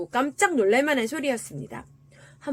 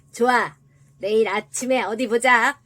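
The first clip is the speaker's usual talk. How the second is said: loud, threatening little devil; 6 dB louder than usual. A narrator's reading. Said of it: "작은 악마가 다시 한번 말했습니다". (큰 소리로 으름장 놓는 작은 악마)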